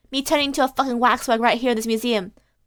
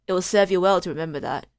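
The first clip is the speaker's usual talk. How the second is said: Holmes read; 5 semitones lower than usual. Acted. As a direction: lecture him like a sly gentleman sleuth. Voices Holmes in game dialogue.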